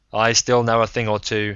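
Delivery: a rough self-made man ribbing him; Braun, gruff old gambler. Acted. Braun on the phone.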